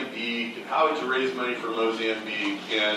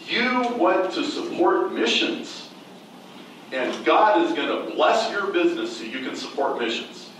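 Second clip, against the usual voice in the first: prophetic stranger; 5 semitones higher than usual. Retold or imitated. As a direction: lay out each word of the blessing.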